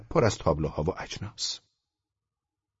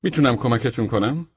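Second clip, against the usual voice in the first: higher, louder salesman's greeting; pleasant tone; 7 semitones higher, 5 dB louder than usual. A narrator's reading. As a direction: offer help in an agreeable, lifted voice. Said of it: "با لحن دلنشینی گفت".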